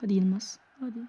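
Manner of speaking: unvoiced, soft hope; whispering a tense plea; whispered plea. Real, not acted. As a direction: breathe it out, hardly daring.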